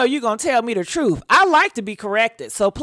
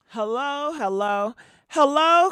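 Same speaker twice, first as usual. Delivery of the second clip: mic check; 3 semitones higher than usual. Shown as a demonstration. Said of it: "let me test this audio".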